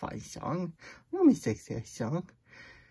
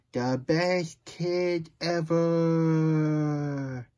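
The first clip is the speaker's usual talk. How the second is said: very slow, stretched out; drawn-out praise; 3 semitones higher, much slower than usual. Acted. Praising the listening kid, slow and stretched. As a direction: savour every word of it.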